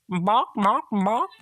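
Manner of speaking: high, loud squawking barks; chicken squawk. Acted. The chicken squawking at the boy, high and loud. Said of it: "began to squawk wildly".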